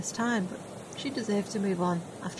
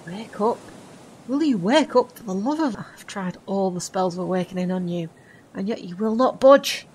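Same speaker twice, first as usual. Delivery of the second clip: louder and louder, fed-up urging; exasperated; 7 dB louder than usual. Acted. Friend loses patience trying to wake the sleeper. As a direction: shake him awake with your voice.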